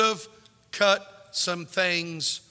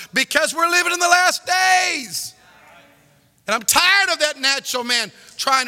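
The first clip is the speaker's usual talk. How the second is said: loud, urgent preaching; urgent pulpit shout; 7 semitones higher, 5 dB louder than usual. Acted. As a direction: hit it hard from the pulpit. Preaching at full force.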